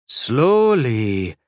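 a gentle, mild scold; tender scolding. Acted. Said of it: "she gently scolded".

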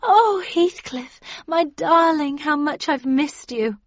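high, slow, swooning greeting; breaking into loud romantic rapture, then easing slightly; ecstatic cry. A narrator's reading. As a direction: gush over a long-missed lover. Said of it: "cried Catherine".

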